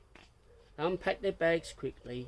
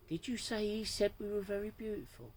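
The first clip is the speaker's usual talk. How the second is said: delighted disbelief; 8 semitones higher than usual. Acted.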